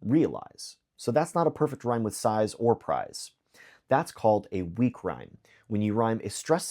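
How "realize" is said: "realize" with the weight on "re", said slowly and clearly; stress on re. Shown as a demonstration. Teacher shows the class where "realize" is stressed. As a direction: lean on the first syllable of "realize". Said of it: "the last stressed syllable of realize is re".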